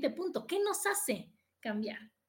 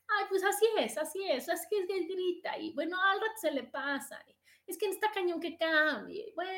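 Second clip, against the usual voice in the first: mock resigned wife; 6 semitones higher than usual.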